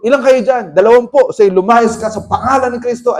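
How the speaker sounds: loud forceful commands; commanding exorcism. Retold or imitated. Preacher casting out twenty demons, loud forceful command. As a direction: order the spirits out.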